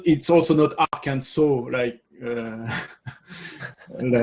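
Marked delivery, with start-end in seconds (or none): 0.5-1.4 "Arkansas" ending in a rounded "-so"; wrong pronunciation shown. Shown as a demonstration. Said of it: "it's not".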